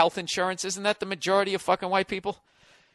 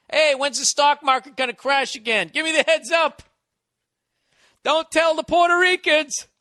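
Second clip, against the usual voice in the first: higher, louder, smug rich-guy voice; smug yachtsman; 7 semitones higher, 3 dB louder than usual. Pretend. Comic mocking rich white people, smug and louder. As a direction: play the smug yacht owner tipping a friend.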